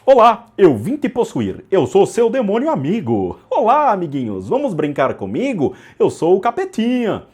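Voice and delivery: high squeaky cartoon demon greeting; cheery little devil, sing-song and loud; bright squeaky sing-song welcome. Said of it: "Aí entra o cara".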